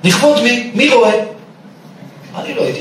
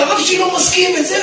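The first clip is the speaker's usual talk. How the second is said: higher mock yell of refusal; retold shout; 10 semitones higher than usual. Rabbi retelling a student shouting at a girl, higher mock yell. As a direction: belt it out like a student fleeing temptation. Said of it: "צעקתי עליה".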